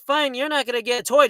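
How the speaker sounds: quick, lightly mocked dismissal; rude grandmother. Grandma denying the kid a toy, imitated rudeness. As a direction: rattle it off like a fed-up grandmother. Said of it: "just being all rude".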